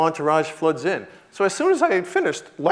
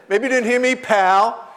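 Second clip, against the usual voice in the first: tough guy; 8 semitones higher, 5 dB louder, slower than usual. Retold or imitated. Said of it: "I actually said".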